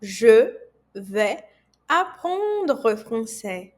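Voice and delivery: Je, vais, apprendre français split apart; slow syllable-by-syllable demo; word by word French. Shown as a demonstration. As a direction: break Je vais apprendre français into single words. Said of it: "Repita comigo".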